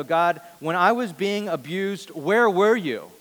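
anguished plea to God. Pretend. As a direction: cry out to God, demanding where he was. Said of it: "go before God and go".

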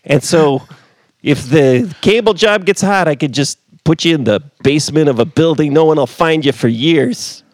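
high, loud put-on caller; mock caller voice. Host voicing the caller's threat, high and loud.

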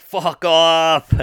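high, loud crowd shout; imitated heckle.

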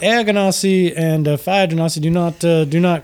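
genteel host gushing with gratitude; gracious Lucian Flametongue. Acted. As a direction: greet them with courtly, lilting flattery. Lucian explains the genasi.

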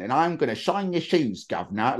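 exaggerated Cockney shoeshine caricature; Cockney accent. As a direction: slip into stagey working-class Cockney. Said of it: "it's kind of fluctuates between that".

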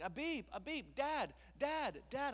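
put-on high, eager toddler voice calling Dad; imitating toddler. Father imitating his toddler son calling about trucks, high and eager. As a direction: pipe up like a two-year-old spotting a truck. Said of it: "he's like".

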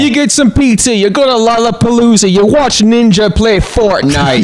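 a hint of a hammy Jamaican lilt; Jamaican accent. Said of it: "Is this the right accent?".

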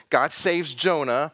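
each word set apart slowly; slow emphatic point. Shown as a demonstration. Preacher stressing his first point. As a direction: drive home "God saves Jonah" slowly. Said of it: "two things".

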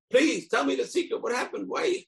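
high insistent wheedling; wife's pleading. Retold or imitated. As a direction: beg him for the secret, pitch climbing. Wife begging for the secret.

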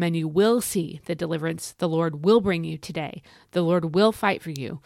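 each "will" leaned on firmly; stress on WILL. Shown as a demonstration. Preacher reading scripture to encourage listeners, stressed "will". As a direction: read the promise, marking every "will". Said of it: "we have that word will three times".

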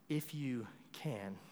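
whispered, unsure and small; hushed doubtful plea. Retold or imitated. Father asking Jesus for his son, a hesitant whisper.

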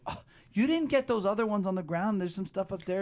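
语气稍高的催促母亲; 轻声模仿一位爱占便宜的妈妈; pushy mom. Retold or imitated. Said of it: "her mom's like".

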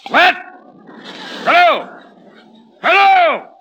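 calling into dead line. Acted. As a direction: shout down a dead phone line. Caller hung up, shouting into phone.

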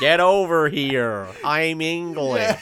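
loud, slow mock-English summons; drawn-out, hammed-up English accent, loudly. Wendy ordering Peter over, exaggerated slow English accent. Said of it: "She says it in an English accent".

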